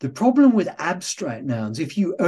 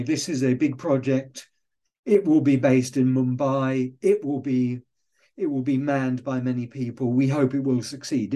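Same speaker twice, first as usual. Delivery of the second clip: staccato. Shown as a demonstration. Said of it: "there's no flow or cadence to that writing".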